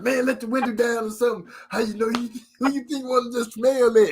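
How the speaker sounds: high-pitched griping; mock exasperated. Dad to daughter with car windows up, exasperated. Acted complaint to farting daughter.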